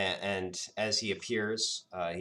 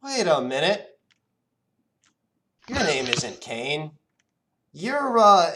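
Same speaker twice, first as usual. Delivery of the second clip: higher, louder, searching genie; puzzled genie; 9 semitones higher, 10 dB louder than usual. Acted. Genie struggling to recall the boy's name, high and searching. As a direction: grope for a forgotten name.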